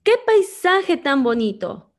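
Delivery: high, loud delighted exclamation; exclaimed. Shown as a demonstration. Teacher showing an exclamation, loud delight. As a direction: gasp it out with delight at the view. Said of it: "abrimos el signo y escribimos".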